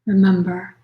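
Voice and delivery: unhurried meditation voice with long pauses; guided meditation. Acted. Yoga nidra teacher settling listeners into practice, calm guided meditation. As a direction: gently guide them inward, leaving space for breath.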